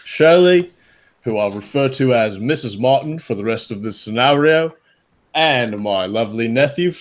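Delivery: lightly put-on British accent as the uncle. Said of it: "if you guys do the accent".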